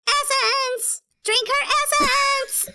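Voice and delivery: high, slow, drawn-out creature cry; Skeksis voice. Retold or imitated. Fan imitating the Skeksis chanting for her essence. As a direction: shriek it like a greedy monster. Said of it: "this one voice rises above all the others and goes".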